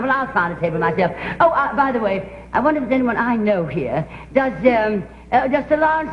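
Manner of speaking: gushing, theatrical society-lady voice; posh grande dame. Acted. Society actress chattering to cafeteria staff, posh and gushing. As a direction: play a grand actress slumming it, all airs.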